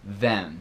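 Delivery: them ending on an N sound, lips apart; said like then. Shown as a demonstration. Teacher showing the lazy American them, sounding like then. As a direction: them said like "then" inside a sentence. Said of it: "como se fosse".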